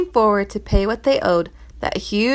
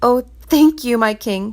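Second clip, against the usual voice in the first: gleeful; 3 semitones higher, 4 dB louder than usual. Acted. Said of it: "cried the servant with glee".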